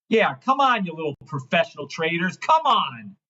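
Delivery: high mocking come on, dropping away; taunting. Real, not acted. Goading the little professional traders, high and mocking. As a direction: goad them, high then falling.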